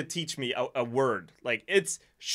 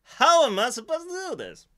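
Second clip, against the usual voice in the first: exasperated; 11 semitones higher, 3 dB louder than usual. Retold or imitated. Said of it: "And I was like".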